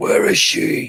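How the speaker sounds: terrible slow, strained, gravelly rasping impression.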